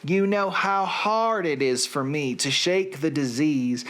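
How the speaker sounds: a lightly put-on Southern accent. Reading song lyrics to his listeners, in a light Southern accent. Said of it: "with a Southern accent".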